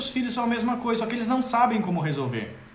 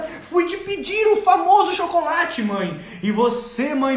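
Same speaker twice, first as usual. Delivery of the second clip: mock-pompous child; 3 semitones higher than usual. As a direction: play a toddler talking like a lecturer. Child voiced as pompous adult. (criança imitada falando de forma pomposa)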